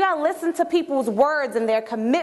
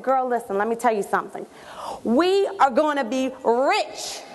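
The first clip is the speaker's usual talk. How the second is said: excited. Acted. Telling a close friend about the meeting, excited and insistent. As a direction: spill big news, landing hard on each detail. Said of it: "sense the excitement in my voice".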